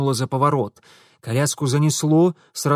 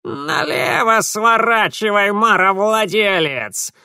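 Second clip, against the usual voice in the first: slow, higher rasping spirit voice; hoarse grumbling creature; 8 semitones higher, 5 dB louder, slower than usual. A narrator's reading. The red creature grumbles directions to Mitya, hoarse and slow. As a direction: croak the order like an otherworldly creature. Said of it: "хрипло буркнула рыжая тварь".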